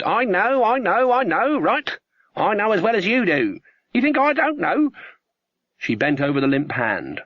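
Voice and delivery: put-on a high, testy old witch ranting about fairy godmothers; sharp old woman scornful of meddling; stern old witch, exasperated. Old witch Granny scolding her friends about godmothers, impatient.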